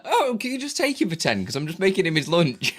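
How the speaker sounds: high mock wife voice; light imitation of his partner asking a favour; imitating his partner asking him to take the baby; quoting Beth. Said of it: "She's like".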